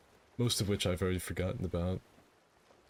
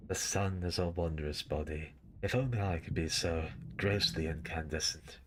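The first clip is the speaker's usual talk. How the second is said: Solaire voice; 2 semitones lower than usual. Shown as a demonstration. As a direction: boom it like a cheerful knight. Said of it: "I do a really good Solaire".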